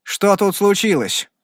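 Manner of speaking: slow, high, insistent question; demanding. A narrator's reading. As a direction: demand an answer, word by word. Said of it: "потребовал ответа страж закона".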